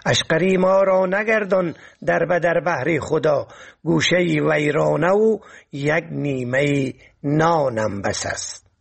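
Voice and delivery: lightly lilting poetry recital; poem recitation. Acted. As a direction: recite it as classical verse, pausing after each half-line. Recites a couplet.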